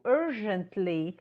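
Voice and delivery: urgently drawn out slowly, each syllable clear; teacher models urgently for the class, slow and clear; slow, careful urgently. Shown as a demonstration. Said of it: "Let's say it again".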